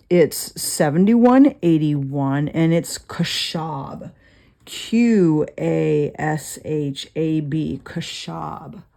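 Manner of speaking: kashab said slowly as kuh-shahb, spelled letter by letter; Hebrew word kashab. Shown as a demonstration. Teacher spelling and pronouncing kashab for students, slow. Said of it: "spelling out Hebrew word".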